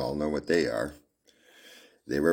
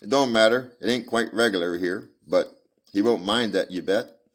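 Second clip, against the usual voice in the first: put-on little girl; 4 semitones higher than usual. Little girl voiced in story.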